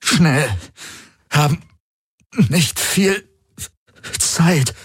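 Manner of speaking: high, urgent, gasped through pain; urgent gasping. A narrator's reading. Wounded man urging escape, gasping. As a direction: push the words out in pain. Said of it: "keuchte er mit zusammengepressten Zähnen".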